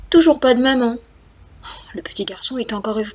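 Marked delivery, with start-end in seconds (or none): 1.9-3.1 whisper. Acted. Building suspense for children.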